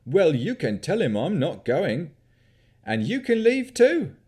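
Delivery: put-on high, loud yokel shout in a country accent; indignant country yokel accent. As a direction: bark at intruders in a broad country yokel accent. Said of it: "His accent mimicked that of a country yokel".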